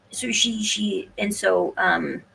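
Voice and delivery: halting false starts; stuttering. Real, not acted. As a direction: stumble over the start of the sentence. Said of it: "I'm stuttering here".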